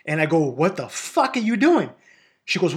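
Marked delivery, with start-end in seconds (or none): 0.4-1.9 slow, indignant retold challenge; indignant outburst. Brother confronting sister over the tree spot, indignant. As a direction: demand an answer, drawing the words out.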